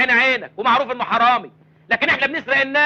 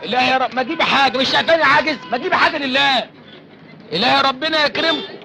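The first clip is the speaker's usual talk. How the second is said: singsong beggar chant, asking for alms; lightly whined begging call; beggar's plea. Acted. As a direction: plead like a street beggar calling out. Blind beggar pleading to passersby.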